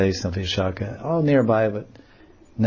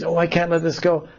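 put-on clinging girl; 7 semitones higher than usual. Clinging to branch.

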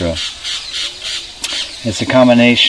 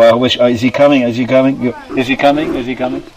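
anxious waiting; faster than usual. Retold or imitated. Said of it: "you don't go".

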